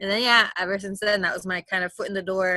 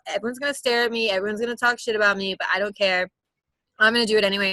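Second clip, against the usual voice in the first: mildly defiant declaration of independence; retold, lightly rebellious insistence. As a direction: voice your younger self's stubborn resolve.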